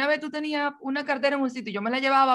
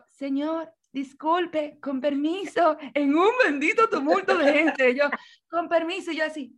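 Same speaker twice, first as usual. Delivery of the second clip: higher, small polite pleading; young girl squeezing through the crowd, mildly pleading; timid pleading; 4 semitones higher than usual. Retold or imitated. Timid girl begging passage.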